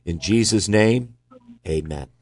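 lifted, slow close to a prayer. Real, not acted. Host closes a prayer for a caller, prayerful. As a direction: raise and stretch it, then settle on amen.

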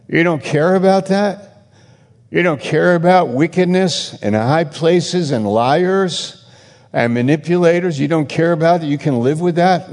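indignant preaching. Real, not acted. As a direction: hammer home the outrage at them.

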